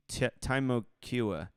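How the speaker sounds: Temecula tried as TIME-oh-KYOO-uh; tentative pronunciation. Shown as a demonstration. Guessing for Orlando locals, Temecula as TIME-oh-KYOO-uh. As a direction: open Temecula with the sound of "time". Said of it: "how do you say that in Orlando".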